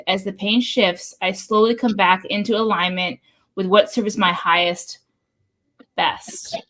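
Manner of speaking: measured read-aloud delivery; tarot card reading. Acted. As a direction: read an affirmation deliberately, phrase by phrase.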